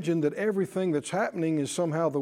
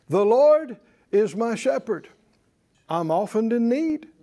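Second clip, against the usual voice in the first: mock misquote; 4 semitones higher, 4 dB louder than usual.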